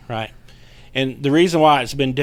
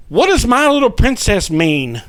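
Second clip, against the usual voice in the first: scared question; 10 semitones higher, 7 dB louder than usual. Retold or imitated. Scared husband asks wife.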